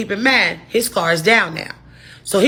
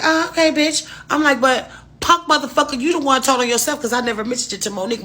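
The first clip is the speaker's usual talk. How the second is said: higher, sassy clapback; retold comeback; 6 semitones higher than usual. To Bubba on the phone, sassy angry comeback. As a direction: snap back at him on the phone.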